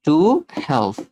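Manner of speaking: very slow, word by word, long gaps; slow spelled-out phrase. Shown as a demonstration. Teacher to students: slow word-by-word phrase. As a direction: drag out each word for the class. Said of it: "N U R S E".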